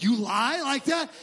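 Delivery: slow, disbelieving jab; incredulous tone. Retold or imitated. Pastor voicing the congregation's disbelief, mock incredulous. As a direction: act shocked that he could lie. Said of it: "in that tone of voice like".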